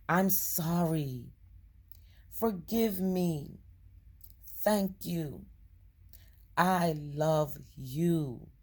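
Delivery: very slow, drawn-out prayer; prayer recitation. Acted. Reciting a simple forgiveness prayer, slow and deliberate. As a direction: give each short phrase room, stretching the words.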